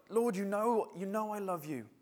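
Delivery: mock-agitated insistence; agitated Peter. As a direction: plead it lightly, as if asked too often. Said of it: "he's getting agitated".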